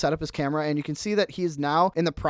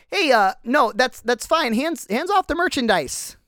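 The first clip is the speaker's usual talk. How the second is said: higher, louder flustered refusal; nervous cameraman; 7 semitones higher, 5 dB louder than usual. Acted. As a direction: fend off the helper in a fluster. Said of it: "He says".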